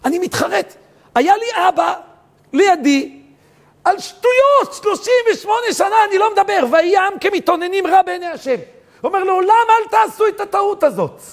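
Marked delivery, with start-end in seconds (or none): 0.0-6.6 rising to a high, loud cry of regret; anguished remorse. Retold or imitated. Son's remorse, preacher's voice rising. 6.7-8.5 high, loud chanted verse; preaching verse. Acted. Quotes the verse at full force. 9.2-11.2 high, loud fervent warning; preaching at full force. Acted.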